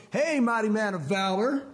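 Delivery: slow, drawn-out teasing greeting; cool movie guy. Acted. Buddy leaning on a tree to scared friend, coolly teasing. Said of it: "the cool guy in the movie, and he leans against the tree and goes".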